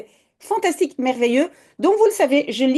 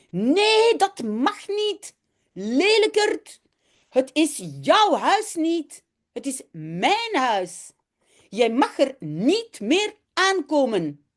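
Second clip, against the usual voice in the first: angry, near tears; 3 semitones higher, much slower than usual. Acted. Janneke scolds Jip for wrecking her house, angry. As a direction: scold him like a hurt, furious little girl. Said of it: "En ze huilt van boosheid".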